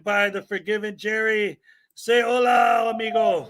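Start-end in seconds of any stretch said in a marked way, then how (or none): 1.9-3.5 calling out. Real, not acted. Host greets guest loudly.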